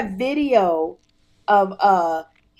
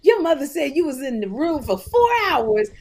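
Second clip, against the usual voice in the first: mocking nagging voice; 5 semitones higher, 3 dB louder than usual. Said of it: "people coming up to him going".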